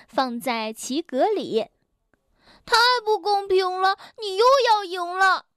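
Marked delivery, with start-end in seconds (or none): 2.6-5.5 higher, whiny grumble of a losing player; childlike sulky protest, a bit louder; frustrated complaint. Acted. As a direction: complain that it's unfair. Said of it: "沮丧地大发牢骚".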